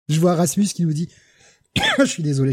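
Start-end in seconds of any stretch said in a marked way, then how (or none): 1.8-2.5 speaking through a cough; coughing fit. Real, not acted. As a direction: cough breaking into the words. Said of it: "je tousse beaucoup ce soir".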